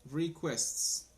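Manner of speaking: "Requests" said clearly, stress on first syllable; model pronunciation. Shown as a demonstration. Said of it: "no sé cómo digo lo último".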